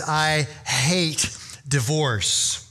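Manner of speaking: very slow, weighted words; grave declaration. Retold or imitated. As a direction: let each word land slowly and seriously. God quoted, grave contrast to joking.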